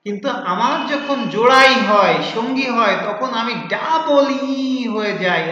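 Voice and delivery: loud, lightly theatrical recitation; letter E speaking. Acted. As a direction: recite the rhyme as the letter, with emphasis. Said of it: "এই যে কি বলেছিল".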